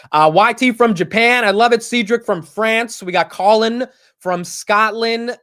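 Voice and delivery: loud, high shout-outs with drawn-out place names; calling out viewers. Real, not acted. Host greets viewers from around the world, calling out. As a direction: belt out the roll call.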